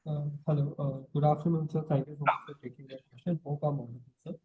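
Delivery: soft, faint speaking voice; barely audible. Real, not acted. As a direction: speak too softly to be heard well. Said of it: "you need to speak up a bit".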